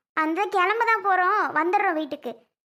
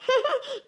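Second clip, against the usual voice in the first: brief high-pitched chuckle; a little delighted laugh; light, high giggle; short laugh; 7 semitones higher than usual. Acted. Delighted over the baby.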